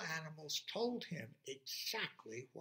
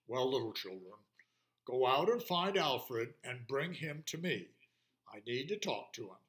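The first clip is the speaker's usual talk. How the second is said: deep lion's voice; 3 dB louder than usual. Acted. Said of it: "in his deep lion's voice".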